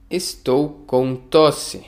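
slow, each syllable clear; slow model reading. Shown as a demonstration. Teacher models a phrase for learners, slowly. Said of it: "teacher repeats phrase for learners".

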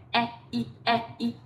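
reading quickly. Shown as a demonstration. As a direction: run "e, i" closer together. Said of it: "Đọc nhanh này".

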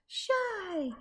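high, breathy whisper of the word; shy whisper. Acted. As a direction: whisper it as if too shy to speak. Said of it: "She feels shy".

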